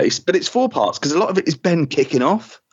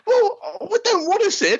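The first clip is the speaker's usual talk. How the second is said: laughing mockery; slower than usual. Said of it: "every companion is just".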